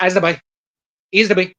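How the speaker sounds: imitating a Newfie mumble; lightly hammed-up Newfoundland accent. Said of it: "Newfies are just like".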